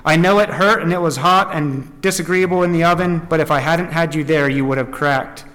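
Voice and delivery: deliberate, measured storytelling; emphatic read-aloud phrasing; story narration. A narrator's reading. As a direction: read the tale out to a congregation.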